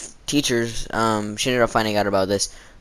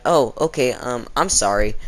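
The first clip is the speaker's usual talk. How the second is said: little dramatic voice. Retold or imitated. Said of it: "with a little dramatic voice".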